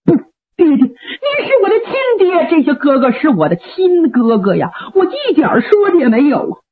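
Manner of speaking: 带着哭腔喊爹, 声音发颤; 儿子见父亲, 含泪哽咽地说. Acted. 杨八郎哭诉认父. (哭着说)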